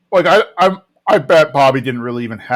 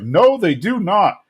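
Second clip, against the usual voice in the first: slow, higher-pitched mock firmness; emphatic denial; 6 semitones higher than usual. Hank answering Bobby about the beds, emphatic. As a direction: draw out a dad's put-on refusal. Hank's firm reply acted.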